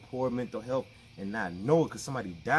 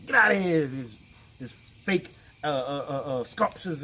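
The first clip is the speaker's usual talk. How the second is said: loud retold Jesus shout, much louder; mock shout; 7 dB louder than usual. Jesus throwing prophets out of the temple, shouting. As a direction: bellow them out of the temple.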